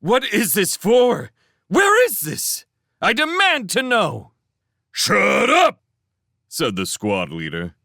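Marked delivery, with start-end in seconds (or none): 0.0-4.3 very high, indignant shouting; outraged, high-pitched protesting; loud protest. A narrator's reading. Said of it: "He protested even more". 4.9-5.8 loud, high military shout; sudden angry bellow of command; shouted order. A narrator's reading. Squad leader silences a protesting prisoner.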